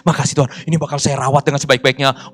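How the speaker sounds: acted-out thankful prayer, brisk and emphatic; eager gratitude. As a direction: thank God eagerly for work at last. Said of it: "kali ini attitude-nya beda". (ucapan syukur penuh semangat)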